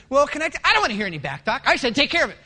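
impatient boss. Retold or imitated. Boss cutting off staff.

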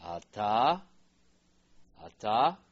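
Ata called out loudly; loud drill. Shown as a demonstration. Teacher drilling the class: loud calls. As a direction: boom the word for repetition. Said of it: "loud drill of a word".

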